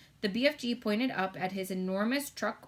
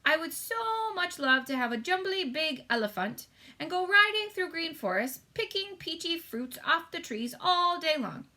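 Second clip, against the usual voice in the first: higher, wistful giant voice dreaming aloud; the friendly giant lost in a lovely daydream; dreamy BFG giant; 6 semitones higher than usual. A narrator's reading. BFG longing for elephant.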